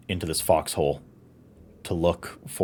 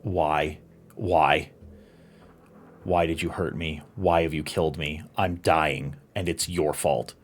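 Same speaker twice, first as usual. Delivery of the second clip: gasping dying plea. Acted. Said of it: "gasping, asking".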